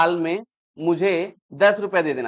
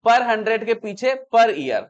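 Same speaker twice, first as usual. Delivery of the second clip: per hundred के पीछे per year, each word drawn out slowly; slow stressed phrase; much slower than usual. Shown as a demonstration. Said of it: "ये word बहुत important है". (धीरे, ज़ोर देकर)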